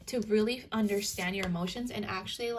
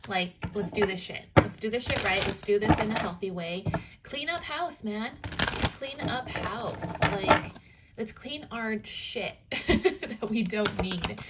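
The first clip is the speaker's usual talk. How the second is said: voicing Virgo. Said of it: "Virgo is like".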